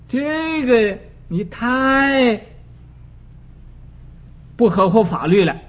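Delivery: furious lawyer berating the King of Hell; angry outburst. A narrator's reading. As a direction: lose your temper and rail at him. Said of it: "就发了脾气来".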